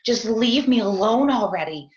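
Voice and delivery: snapping at the husband on the phone in a mild mock yell; retold yell. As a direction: push the words out in a yell. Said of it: "and I'm yelling".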